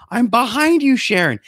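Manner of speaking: high, loud granny shout; old woman yelling back. Retold or imitated. Sharon answers Betty across the parking lot, high loud yell. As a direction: holler back at her friend, shrill and high. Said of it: "And then Betty's yelling".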